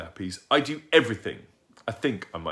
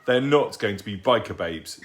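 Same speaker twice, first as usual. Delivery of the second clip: firm declaration; 6 dB louder than usual. Acted. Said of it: "declared Mum".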